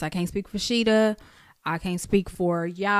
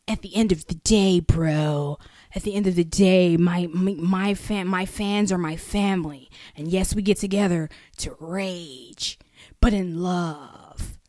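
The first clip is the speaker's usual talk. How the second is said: mock laid-back California valley accent; 3 semitones lower than usual. Co-host replaying the rapper's interview, mock valley-dude accent. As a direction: parody an earnest valley dude, drawing out the last phrases. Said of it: "And the nigga was like".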